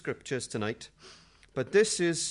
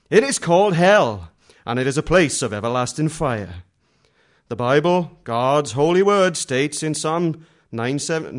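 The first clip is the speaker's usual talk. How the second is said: louder dramatic trailer narration; movie trailer voice; 10 dB louder than usual. Retold or imitated. Preacher mocking a tract as a film-trailer voiceover, dramatic. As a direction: read it like a film trailer announcer.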